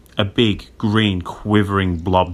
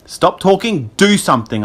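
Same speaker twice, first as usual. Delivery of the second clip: restrained, high-pitched scream; 9 semitones higher than usual. A narrator's reading. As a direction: urgently demand action. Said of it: "I screamed".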